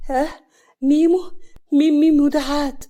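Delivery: high, loud, incredulous questioning; baffled surprise. Acted. Smitten man hearing a new nickname, loudly baffled. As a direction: question the name as if never heard before.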